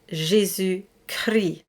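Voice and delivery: Jésus Christ with the S and T voiced, slow; French pronunciation. Shown as a demonstration. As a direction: say Christ with S and T sounded. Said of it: "we say".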